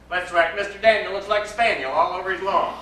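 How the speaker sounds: loud, gleeful schoolboy call across the snow; boisterous playground shout; excited children's shout. Acted. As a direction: shout it out like a cheeky boy plotting mischief.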